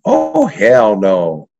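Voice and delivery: drawn out, slow oh hell no; defiant refusal. Retold or imitated. Kid refusing to apologize to the principal, slow and defiant. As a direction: stretch it out in flat refusal.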